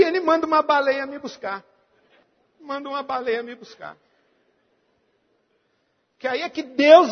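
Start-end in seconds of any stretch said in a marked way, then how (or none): 0.0-1.6 higher, quick retort; resposta desafiadora. Retold or imitated. Repete a própria resposta bem-humorada. 2.6-4.0 retorta repetida em voz baixa. Retold or imitated. Repete a resposta em tom baixo.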